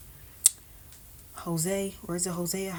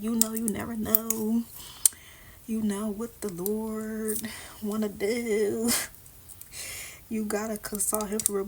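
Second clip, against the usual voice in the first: retold former self; 4 semitones higher than usual. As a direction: imitate your old hopeful advice, stretched a little. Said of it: "Before, I used to be like".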